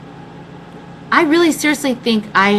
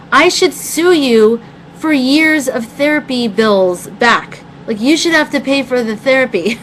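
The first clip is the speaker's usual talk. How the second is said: retold comeback; 5 semitones higher than usual. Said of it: "and I go".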